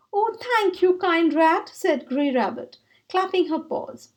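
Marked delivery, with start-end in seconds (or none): 0.1-1.7 delighted. Acted. Grey Rabbit delighted, clapping.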